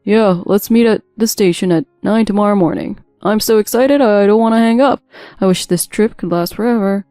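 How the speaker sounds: eager, lovey-dovey husband on the phone; lightly acted besotted sweet talk; overly affectionate. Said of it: "Hearing Mike's overly affectionate tone".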